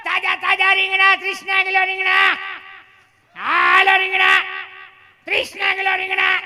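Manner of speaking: loud, high vendor call; sing-out market seller's shout; street hawker's cry. Acted. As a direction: holler your wares, stretching the calls. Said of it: "ભાઈ બિચારો માથે ટોપલું લે".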